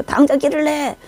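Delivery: a retold scolding; mild angry order. Leader ordering the follower to make a path, mild anger. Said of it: "화를 내면서".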